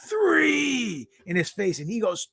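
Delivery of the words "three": high yelled "three" like a wrestler on the mat; yelled count. Retold or imitated. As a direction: shout "three" up into his face. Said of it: "I yell".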